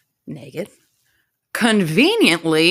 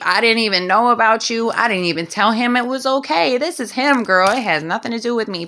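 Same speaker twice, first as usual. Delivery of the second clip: put-on pleading girl; 4 semitones higher than usual. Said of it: "Sleeping Beauty tries to tell her".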